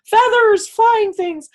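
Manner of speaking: put-on high, loud, childlike wonder; delighted distraction. Distracted by giant birds outside, squealing in delight. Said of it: "distracted and I'm like".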